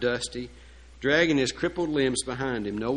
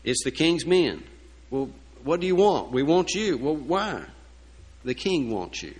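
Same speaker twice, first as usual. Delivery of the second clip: loud, higher-pitched acted challenge; calling at the door; 4 semitones higher, 6 dB louder than usual. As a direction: act out a forceful exchange at the door.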